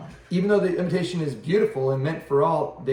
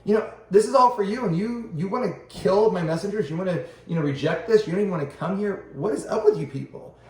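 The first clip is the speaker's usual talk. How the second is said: exasperated God; 4 semitones higher than usual. Retold or imitated. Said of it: "He's like".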